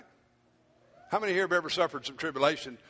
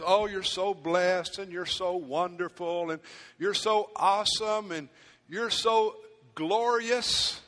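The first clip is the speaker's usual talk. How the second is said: mock flattery; slower than usual. Quoting flattering sermon words.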